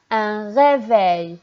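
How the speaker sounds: "Un réveil" said slowly with the "eil" drawn out; "réveil" read slowly with a clear "eil"; slowly read word. Shown as a demonstration. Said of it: "E I, un seul L".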